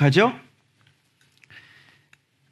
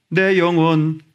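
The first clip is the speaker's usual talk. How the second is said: slow confident declaration; 3 dB louder, slower than usual. Shown as a demonstration. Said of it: "이렇게 해야지".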